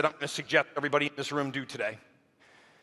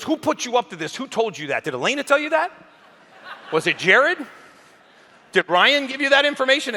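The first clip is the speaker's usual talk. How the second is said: mock angry, higher, louder questions; imitating mad Grant; 8 semitones higher, 3 dB louder than usual. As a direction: fire off accusing questions in a retold rage. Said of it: "and then he got mad".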